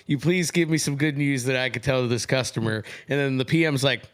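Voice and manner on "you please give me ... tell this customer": mock pleading sales guy. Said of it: "that sales guy's like".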